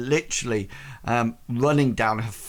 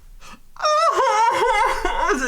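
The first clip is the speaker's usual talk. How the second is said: loud, high-pitched acted wail; 6 dB louder than usual. Marigold as her emotions rush past the calm spell, wailing. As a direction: burst into a high wail of grief.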